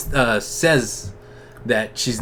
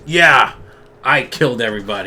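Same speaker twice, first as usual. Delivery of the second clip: imitated mocking confession, loud on the first word; 4 dB louder, faster than usual. Sabretooth taunting the court as he admits his charges, lightly acted mockery. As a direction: own up as if taunting them. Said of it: "he's just mocking them".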